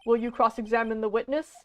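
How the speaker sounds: put-on earnest, nervous young hero voice; anime protagonist voice. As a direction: champion a cause, a bit nervously. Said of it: "I love doing this anime protagonist voice".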